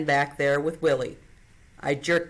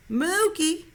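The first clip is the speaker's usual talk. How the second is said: high, raised call of his name; a little louder; 13 semitones higher than usual. A narrator's reading. Girl calls the sleeping man a little louder. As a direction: call him a bit louder. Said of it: "a little louder".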